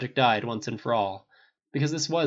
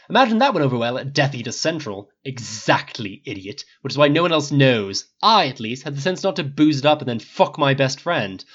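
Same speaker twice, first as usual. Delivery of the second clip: raised angry voice, biting words; heated retort. Acted. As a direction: hit back hard and cutting.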